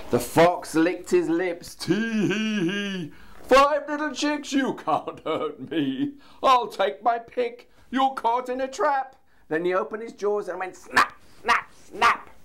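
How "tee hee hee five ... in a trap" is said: gloating fox. A narrator's reading. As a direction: gloat over trapped prey.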